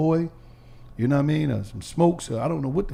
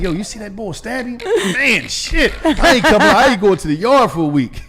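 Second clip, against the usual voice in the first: scared jail talk; 4 semitones higher, 5 dB louder than usual. Retold or imitated. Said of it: "I'm like".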